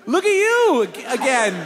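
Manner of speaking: high, slow mock-cheery praise; forced niceness. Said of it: "I was just gonna be nice".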